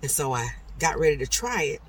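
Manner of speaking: ordinary delivery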